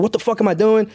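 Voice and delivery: exasperated outburst at yourself, only half shouted; retold scream at himself. Podcaster retelling his realization, mock screaming at himself. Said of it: "screaming at myself".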